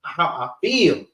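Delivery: lightly played sister getting worked up, pitch climbing; mock sister venting. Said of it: "Sisters got that real".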